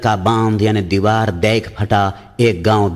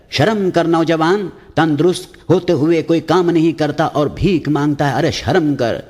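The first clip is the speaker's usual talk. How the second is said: scolding mullah; 7 semitones higher than usual. Acted.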